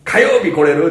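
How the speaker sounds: put-on high, laughing kid's question; high child voice, laughing; imitating an eager child. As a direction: plead like a hopeful child. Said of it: "って言われて".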